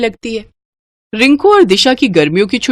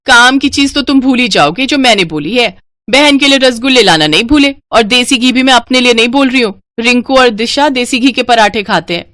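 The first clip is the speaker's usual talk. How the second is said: demanding wife; 4 semitones higher than usual. Acted. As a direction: demand it sharply from your husband. Sunaina scolds husband.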